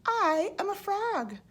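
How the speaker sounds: high, proud declaration; triumphant. A narrator's reading. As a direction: announce it like a victory. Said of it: "he said triumphantly".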